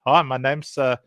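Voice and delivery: lightly exaggerated South African accent; mock South African accent, hesitant, tacking on "eh"; South African movie-villain accent. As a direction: imitate a stock South African film character. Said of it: "they all talk like this".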